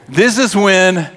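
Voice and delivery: slow, mannered preacher's delivery; mock preacher. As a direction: start up a hammed-up pulpit voice. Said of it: "I do that preacher thing".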